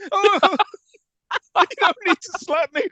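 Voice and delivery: high pleading hostage voice; mock scared hostage. Hostage pleading with the chimp at the wheel, high and panicky.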